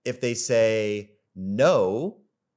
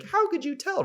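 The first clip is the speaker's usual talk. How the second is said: much higher voice, wide-eyed question; mock amazed girl. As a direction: squeak it like an impressed girl. Voicing the girl's amazement.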